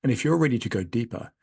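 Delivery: measured, scripted host sign-off; podcast outro read. Real, not acted. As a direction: read the closing message to listeners, neatly phrased.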